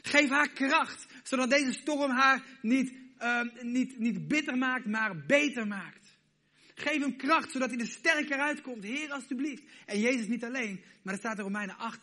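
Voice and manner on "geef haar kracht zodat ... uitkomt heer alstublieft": loud, high, slow pleading prayer; Jesus pleading for the listener, loud and slow; fervent pleading. Retold or imitated. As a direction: plead with the Father with everything. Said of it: "hij pleit en zegt".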